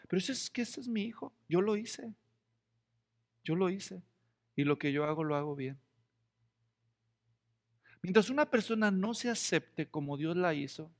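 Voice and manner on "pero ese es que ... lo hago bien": softer, tender fatherly assurance; God gently affirming his child; gentle voice of God. Retold or imitated. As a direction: speak with proud, calm love. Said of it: "Dios está ahí a un lado viendo, diciendo".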